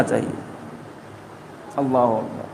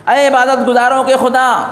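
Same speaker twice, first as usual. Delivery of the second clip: Moses calling out; 4 semitones higher than usual. Acted. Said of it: "آواز دی".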